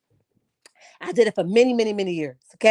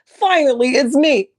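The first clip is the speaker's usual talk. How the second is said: imitating Quicksilver. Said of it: "and he's like".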